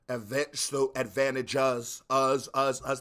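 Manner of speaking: "advantages" with weight on the end, then "us, us, us" punched; stress on last syllable. Shown as a demonstration. Showing the rapper's rhyme, hitting "us" hard. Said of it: "he adds that emphasis on that last, uh, syllable".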